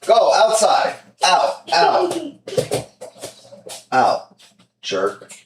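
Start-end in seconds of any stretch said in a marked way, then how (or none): 0.0-4.4 high, urgent shoo; high pleading shoo at the dog. Real, not acted. Shooing drooling dog outside.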